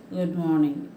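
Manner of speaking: low, reluctant Good morning; awkward forced greeting. Shown as a demonstration. Teacher showing children a grudging unwilling greeting. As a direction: wish as if forced to. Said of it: "it sounds so awkward".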